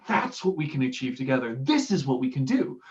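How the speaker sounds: rally them lightly with conviction; a touch of inspirational passion; inspirational drive. Shown as a demonstration. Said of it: "an inspirational drive".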